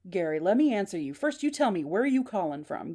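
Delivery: mildly heated, insistent questioning; a touch of acted irritation; hot-headed. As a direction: push back at the caller with some impatience. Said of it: "Gary's a little hot-headed".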